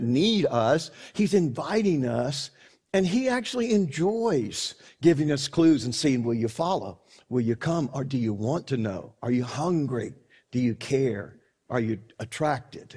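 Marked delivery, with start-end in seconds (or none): 6.2-12.9 lower, softly searching questions; gentle invitation. Acted. God inviting people to pursue the clues, gentle and low. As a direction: draw them in quietly, one question at a time.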